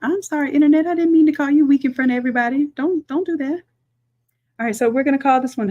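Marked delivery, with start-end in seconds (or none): 0.0-3.6 high, playful sorry to the internet; mock apology. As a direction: sweet-talk the internet like a hurt friend.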